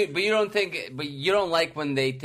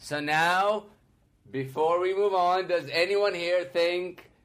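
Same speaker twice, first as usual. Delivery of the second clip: priest voice. Pretend. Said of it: "You be the priest saying this".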